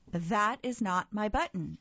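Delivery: mild shout. Acted. Toad frustrated at Frog, mild shout. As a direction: raise it a little in frustration. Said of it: "shouted Toad".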